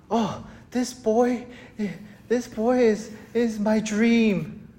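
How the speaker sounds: slow, drawn-out swoon; mock lovestruck pining. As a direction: act out dreamy infatuation. Imagined lovestruck girl pining over boy.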